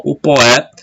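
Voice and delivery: "poé" as a single syllable; one merged syllable. Shown as a demonstration. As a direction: say "O poé" with o gliding straight into é. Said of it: "junta-se a sílaba".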